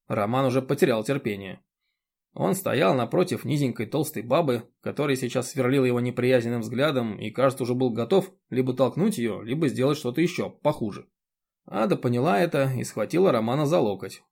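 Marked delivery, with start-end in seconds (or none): none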